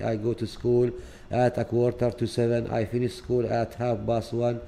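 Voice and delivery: slow, careful reading of sample sentences; slow model reading. Shown as a demonstration. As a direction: read each English line slowly for students. Reads model email aloud. (قراءة بطيئة واضحة للجمل)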